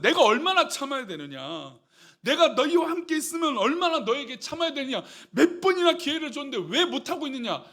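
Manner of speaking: exasperated scolding, voice rising; stern rebuke. Acted. Jesus rebuking his failing disciples, exasperated scolding. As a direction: demand to know how much longer. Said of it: "질책을 하고 있는 것이죠".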